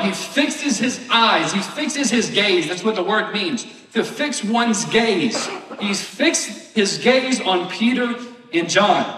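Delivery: slow, amused stress on fixed gaze; slowed with a laugh; laughing, slow emphasis. Real, not acted. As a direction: chuckle through the words slowly.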